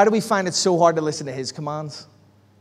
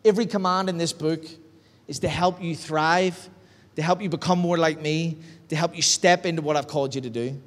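softer and lower, a calm fatherly rebuke; hushed, tender, softer correction; gentle correcting voice; 4 semitones lower, 5 dB quieter than usual. Retold or imitated. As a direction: speak it quietly, like God setting you straight. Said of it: "the Holy Spirit convict me and go".

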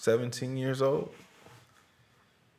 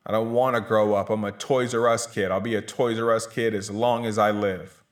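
defiant shout; 4 dB louder than usual. Acted. Defiant childish chant again.

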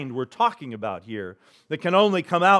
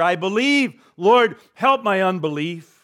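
honest cry; 4 semitones higher than usual. Retold or imitated. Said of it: "the most honest cry".

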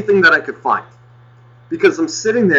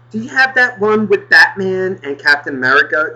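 higher mock customer question; clueless customer; 5 semitones higher than usual. Customer asking shop owner for a comic, higher mock voice. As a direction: imitate a clueless shopper asking, pitched up. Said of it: "just talk ridiculous shit".

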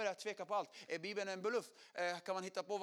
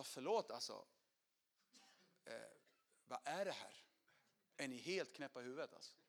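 upset retort; 6 semitones lower, 5 dB quieter than usual. Retold or imitated. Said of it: "jag var så besviken och arg".

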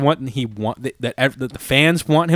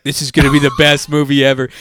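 hyped movie fan; 6 dB louder than usual. Retold or imitated. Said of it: "Chad Hoy from the Dad Podcast is like".

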